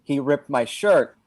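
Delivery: understated mock yell; mild mock scream. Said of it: "so I'm just screaming".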